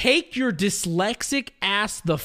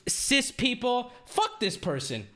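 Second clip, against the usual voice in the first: outraged rant. Acted. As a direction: vent like you can't believe it. Outraged rant about streamer.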